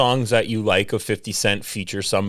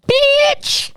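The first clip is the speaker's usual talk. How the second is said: very high, drawn-out catchphrase yell; a rapper; 3 dB louder than usual. Acted. Friend announcing a rapper by his catchphrase, high imitation yell. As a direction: belt out the rapper's signature shout. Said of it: "a rapper".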